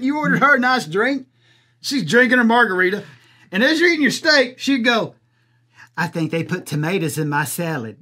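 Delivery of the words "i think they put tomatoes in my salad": put-on whiny girlfriend. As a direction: lower and softer, a put-upon pout. Mimics the girlfriend complaining.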